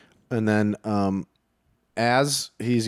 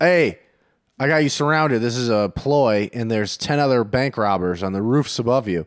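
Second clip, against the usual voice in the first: bluffing robber. Acted. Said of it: "I tell them that I have them surrounded".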